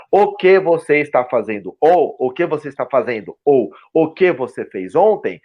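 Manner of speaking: "o que você está fazendo" sounded out word by word; textbook enunciation. Shown as a demonstration. Guest models teaching a learner rigid phrases, textbook enunciation. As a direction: drill it like a schoolbook sentence. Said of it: "se eu foco totalmente em te, em, em te ensinar".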